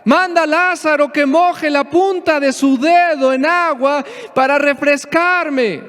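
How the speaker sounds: a rich man's pleading cry from torment; crying out for mercy. Retold or imitated. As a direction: beg from torment, voice lifted. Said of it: "le gritaba".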